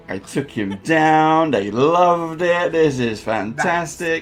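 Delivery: slow, savoured delight; slow gloating triumph. Acted. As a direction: relish the victory slowly. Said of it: "You're like".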